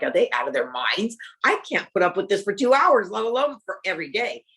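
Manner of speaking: as if the whole idea is insane; exasperated disbelief. Retold or imitated. To her husband after the first shot, exasperated.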